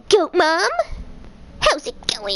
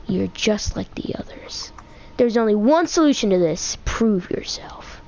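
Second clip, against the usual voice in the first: Goat Mom voice; 4 semitones lower than usual. Acted. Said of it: "I can't voice characters in Undertale".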